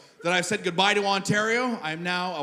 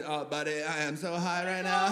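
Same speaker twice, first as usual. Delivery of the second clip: pothead voice; 2 semitones lower, 6 dB quieter than usual. Acted. Marijuana smoker confiding in a buddy, soft pothead voice. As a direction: say it like a mellow, baked pothead. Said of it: "you get that pothead voice".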